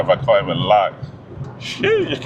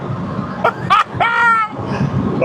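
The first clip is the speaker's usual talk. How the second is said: shrieking laugh. Real, not acted. Driver sees the BMW guy coming, shrieking laugh. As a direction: burst into a squealing laugh.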